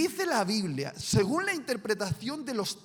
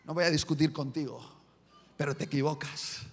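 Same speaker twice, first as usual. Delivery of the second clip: tense Peter; 5 semitones lower, faster than usual. Acted. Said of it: "Pedro tenso y dice".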